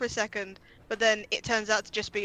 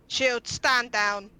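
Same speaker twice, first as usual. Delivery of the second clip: calling off guard; 4 dB louder, much slower than usual. Acted. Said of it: "quickly just goes".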